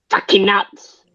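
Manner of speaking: whispering; hushed whisper, high. Real, not acted. Joke about mental people.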